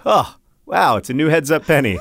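mock surprise. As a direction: act delighted by a lucky find. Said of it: "I'll be like".

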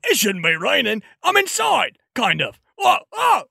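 high startled yelps; jolted by a sudden drip. Acted.

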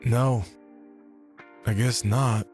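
sheepish admission after a scolding; meek. Acted. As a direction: concede in small, halting phrases. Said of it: "Meekly, I answered".

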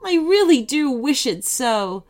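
tender heartfelt wish; gently longing baker; wistful. Acted. Baker wishing.

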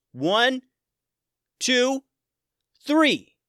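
yelled count. Acted. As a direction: count it off like a battle signal. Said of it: "Tim yelled out".

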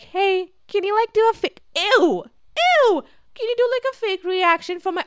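high, squeaky mocking voice; mock requester. Mimicking someone asking for a fake reaction, high mocking voice. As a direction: put on a silly high-pitched asker.

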